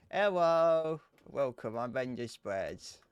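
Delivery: lightly voiced cute VTuber greeting; loud bright hello, then a slow self-introduction; put-on VTuber voice. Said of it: "If I was a VTuber and I spoke like this".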